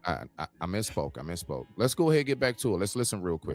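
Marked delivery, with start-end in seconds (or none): 0.1-1.7 quiet, embarrassed apology; sheepish quiet. Real, not acted. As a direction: drop it low and mumble the apology. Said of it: "My bad, my bad".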